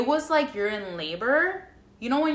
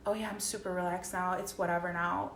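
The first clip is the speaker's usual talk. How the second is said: high and relaxed; 6 dB quieter than usual. Retold or imitated. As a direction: let it sink into a don't-care murmur. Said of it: "literally was so high".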